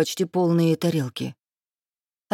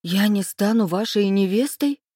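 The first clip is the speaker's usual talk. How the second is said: indignant; 3 semitones higher than usual. Acted. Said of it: "вырвалось у меня возмущённо".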